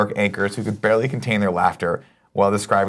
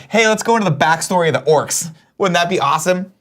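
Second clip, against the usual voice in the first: high, laughing mock of the filmmakers; a hint of a sarcastic pitch; sarcastic high mimicry of the movie makers; 7 semitones higher than usual. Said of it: "Remember the part where they were like".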